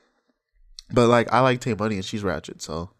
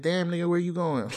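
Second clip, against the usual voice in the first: put-on higher-pitched catcalling girl; hollering girl; 7 semitones higher than usual. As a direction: mimic a girl hitting on a guy. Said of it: "girls that will holler at the guy".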